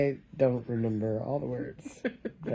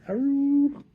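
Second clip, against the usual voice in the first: high but softer aroo; softer elephant call; 12 semitones higher than usual. Retold or imitated. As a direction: say aroo more gently. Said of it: "So it says".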